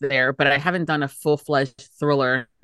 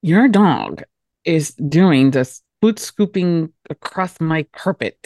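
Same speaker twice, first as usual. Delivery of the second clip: a lightly voiced gossip out of the side of the mouth; the gossip voice, played loud and slow; side mouth talker; 5 dB louder, slower than usual. Guest tries the side-mouth talker card, loud gossip. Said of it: "Your accent is side mouth talker".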